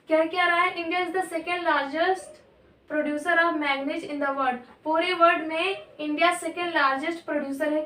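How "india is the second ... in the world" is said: reading the notes aloud, word by word, very slow; measured dictation pace; slow textbook reading. Acted. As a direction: dictate it slowly to the class. Reads textbook line slowly to class.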